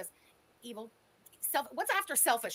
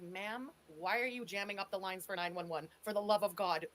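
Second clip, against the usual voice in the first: mock police operator; 6 semitones lower than usual. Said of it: "And they're like".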